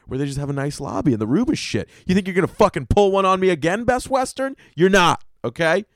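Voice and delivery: high, fast rant at the hotel; inner monologue at the hotel. Retold or imitated. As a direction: sneer it at Best Western as the words speed up and climb. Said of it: "You're like".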